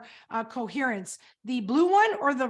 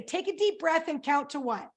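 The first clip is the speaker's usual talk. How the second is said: imitated grandmother; 4 semitones higher than usual. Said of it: "She would say".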